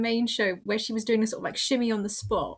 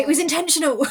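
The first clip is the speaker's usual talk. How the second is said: laughing; 7 semitones higher, 7 dB louder, faster than usual. Real, not acted. Joking defence, laughing.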